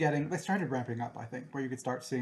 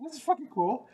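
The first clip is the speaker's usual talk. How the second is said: excited; 12 semitones higher, 5 dB louder than usual. Retold or imitated. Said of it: "and you're like".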